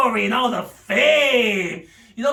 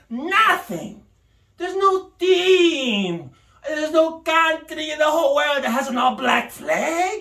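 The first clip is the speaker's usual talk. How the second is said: mock crying; 2 semitones higher than usual. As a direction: wail it like fake grief over the uniforms. Mock despair over black uniforms.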